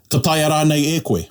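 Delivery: openly doubting, a touch of challenge; challenging tone. Shown as a demonstration. Teacher shows rānei as a doubting challenge. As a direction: question their ability to do it. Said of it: "there's a tone of a challenge".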